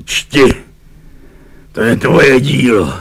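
mildly tragic reproach. A narrator's reading. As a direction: pronounce it with a touch of tragedy. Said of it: "řekl mu tragickým hlasem".

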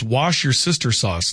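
"Wash your sister sauce" slowly as separate words; mock Worcestershire. Host reading a texter's mangled Worcestershire, slow "Wash your sister sauce". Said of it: "Texter writes".

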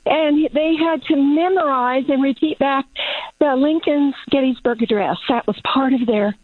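huffing and puffing; winded from outdoor work; out of breath. Real, not acted. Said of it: "I'm huffing and puffing 'cause I'm working outside".

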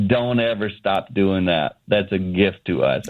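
slow, low and heartfelt; wife moved, telling him to keep on; tender plea. Retold or imitated. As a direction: hold his face and say it gently. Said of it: "she literally grabbed me by the face and she said".

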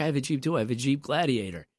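lightly voiced old man, a touch far off; a hint of a proud old man bragging; old man boasting about his new Jeep, lightly voiced. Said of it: "In an old man voice".

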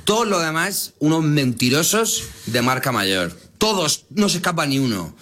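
high-pitched, exaggerated sweeping denunciation; mock-indignant accusation. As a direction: declare everyone guilty, pitch jumping high. Mock rant accusing all journalists.

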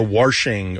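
"washing" said as worshing; intrusive R. Shown as a demonstration. Host illustrating a dialect feature, "washing" with an added R. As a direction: put an R before the sh in "washing". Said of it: "known to linguists as the intrusive R".

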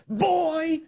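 high mock yell of Boy. Host imitating the activist yelling at a police officer, high mock yell. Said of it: "He's yelling".

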